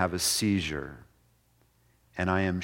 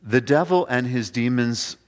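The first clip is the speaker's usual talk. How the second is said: ordinary talk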